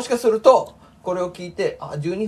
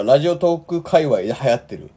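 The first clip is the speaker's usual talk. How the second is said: talking through a burp; burping the words. Real, not acted. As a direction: burp while speaking the words. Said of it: "ゲップしながら喋らんでください".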